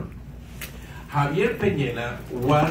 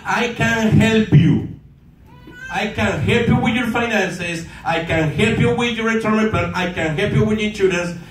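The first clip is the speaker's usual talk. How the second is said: pushy sales pitch; 5 semitones higher than usual. Shown as a demonstration. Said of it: "you say things like this".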